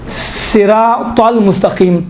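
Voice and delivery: slow صراط المستقیم with a heavy ط; thick emphatic ط. Shown as a demonstration. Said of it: "تھوڑا موٹا ادا کریں".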